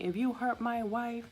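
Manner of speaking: high, slow mock threat in a changed voice; imitating a husband warning the nurse off; threatening husband. Husband threatening the nurse over his wife, slow mock threat. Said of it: "tells me".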